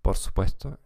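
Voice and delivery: Spanish with a German accent; German-accented Spanish, careful and measured. Real, not acted. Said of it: "con acento alemán".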